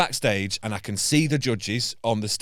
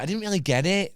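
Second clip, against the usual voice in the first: puzzled judge; 9 semitones higher than usual. Retold or imitated. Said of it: "she's like".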